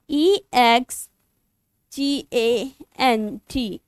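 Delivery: slow, letter-by-letter trial spelling. Shown as a demonstration. Teacher slowly spelling a word for her students to check. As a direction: sound out each letter slowly. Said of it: "एक्सटेंड लिखने में सही सा नहीं लग रहा".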